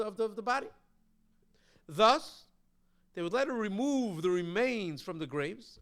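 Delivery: loud, measured reading from a text; reading aloud. Acted. Reads a commentary aloud.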